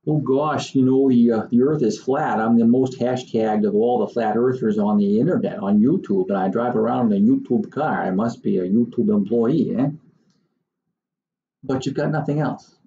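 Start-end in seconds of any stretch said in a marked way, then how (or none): 0.1-9.9 mocking flat earther. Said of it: "Or you got".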